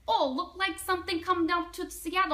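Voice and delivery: put-on Russian-accented airline clerk. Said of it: "there's this Russian lady".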